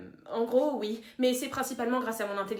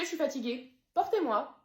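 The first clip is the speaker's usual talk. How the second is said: usual speaking voice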